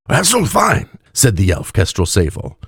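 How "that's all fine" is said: high tipsy slur; drunk elf. A narrator's reading. Drunk elf wobbling in his chair, high tipsy voice. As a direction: brush it off drunkenly. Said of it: "wobbling in his chair slightly".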